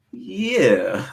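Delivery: white phone voice. Retold or imitated. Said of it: "use their white voices".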